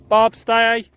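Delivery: sharp loud command, high; loud stern yell at the dog. Real, not acted. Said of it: "have to yell at him".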